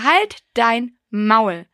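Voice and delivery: drawn out, each word laid down slowly; very slow mock snap. Telling her ex-boyfriend off, very slow and deliberate. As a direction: spell it out with mock contempt. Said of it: "ich war wirklich nur so".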